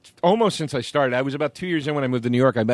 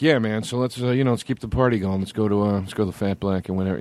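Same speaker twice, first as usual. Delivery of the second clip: imitating Dave; 4 semitones lower than usual. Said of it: "he talks like".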